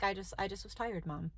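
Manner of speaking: low, soft, sleepy mumble; tired child imitation. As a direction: answer mom wearily and quietly. Voices tired son answering softly.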